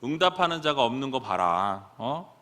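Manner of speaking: mock the false prophets, building to a loud jeer; mocking taunt. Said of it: "조롱하기 시작해요. 놀리기 시작합니다".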